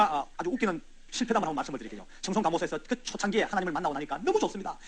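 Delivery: ordinary delivery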